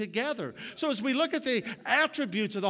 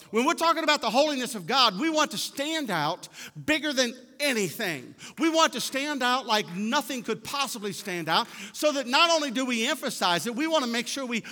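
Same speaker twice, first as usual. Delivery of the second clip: raised, driving preacher's delivery; higher-pitched, insistent pulpit voice; emphatic preaching; 4 semitones higher, 4 dB louder than usual. Real, not acted. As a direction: press the point home with rising urgency. Preacher building emphasis on holiness.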